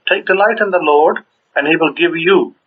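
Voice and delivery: "you" set apart as if bracketed; stress on you. Shown as a demonstration. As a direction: read the verse leaning on "you" at the end. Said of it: "you in brackets".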